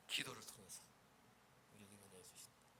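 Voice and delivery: soft intimate close; hushed. Shown as a demonstration. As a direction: drop the voice on 우리에게 은혜를 주신다. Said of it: "고난 가운데 기도를 통해서 우리에게 은혜를 주신다".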